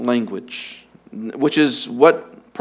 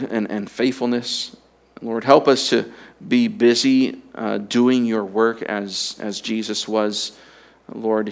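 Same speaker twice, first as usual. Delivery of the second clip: closing prayer; 2 semitones lower than usual. Acted. Pastor praying over the congregation, reverent and earnest.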